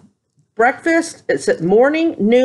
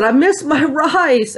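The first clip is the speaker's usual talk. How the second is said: higher, slow, with a laugh; laughing confession; 6 semitones higher, slower than usual. Retold or imitated. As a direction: laugh through the longing.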